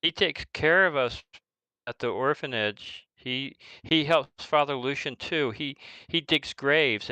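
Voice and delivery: halting, lightly voiced kid; worried orphan child. Orphan begging visitors to help his sick friend, pleading. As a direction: stumble along, then plead.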